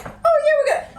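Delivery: high, loud cheery cover-up; forced casual. Retold or imitated. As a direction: brush it off brightly. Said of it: "I was like".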